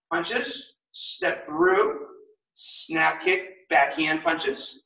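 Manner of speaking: combos called out slowly. Shown as a demonstration. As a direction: drag the combo names out, very slow. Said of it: "one more time, slow".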